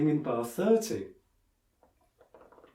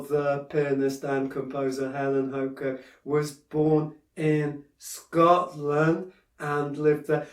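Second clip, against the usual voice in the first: flowing, slow reading; slower than usual. Shown as a demonstration. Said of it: "try and flow a bit more".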